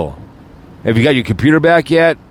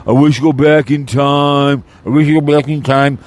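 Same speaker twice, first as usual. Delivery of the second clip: mock mumbling apology. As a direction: parody a half-hearted sorry. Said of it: "Mumbling, big deep breath".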